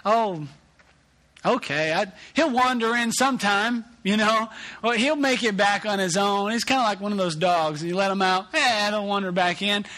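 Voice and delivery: lazy unbothered dad impression; mock careless. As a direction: play the parent who doesn't care. Mock careless parent attitude.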